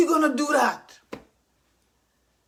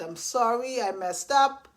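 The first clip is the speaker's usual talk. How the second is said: soft sincere apology; 5 semitones lower, 5 dB quieter than usual. Retold or imitated. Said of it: "I get to say that".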